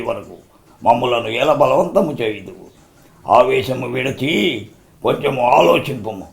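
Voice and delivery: restrained, reasoning officer; measured, formal film persuasion; Jaggayya as Rutherford. Acted. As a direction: talk the rebel down with stately pauses. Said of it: "వాళ్ళిద్దరు ఏ విధంగా dialogue చెప్పారు".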